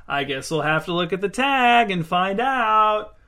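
sing-song it, drawing out the key words. A narrator's reading. Kirsten playing coy about the gift tag, sing-song. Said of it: "she said in a sing-song voice".

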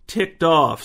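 put-on high, loud baby word; a small child parroting one word; toddler voice. Toddler repeats a phrase.

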